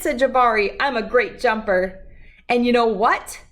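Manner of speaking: gentle, lively storybook reading; reading to children. Acted. Reading Jabari Jumps aloud to children, storybook voice. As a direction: read the picture book to the kids. Reads picture book aloud.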